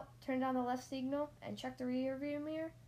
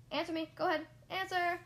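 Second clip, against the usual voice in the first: pushy; 7 semitones higher, 5 dB louder than usual. Acted. Instructor pressing for answer.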